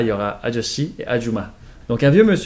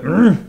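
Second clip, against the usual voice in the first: demonstrated wordless grunt; expressive Korean uncle's grunt; ajoshi grunt; 6 semitones higher, 6 dB louder than usual. Shown as a demonstration. Teacher shows all possible ajoshi noises, grunting. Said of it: "Tous les sons possibles".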